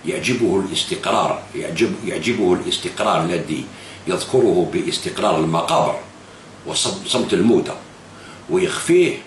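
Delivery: slow, measured recital of a quoted article; reading his article aloud. Retold or imitated. Vlogger reading the leader's own article back to him, slow recital. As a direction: read the quote deliberately, word by word. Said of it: "تقول".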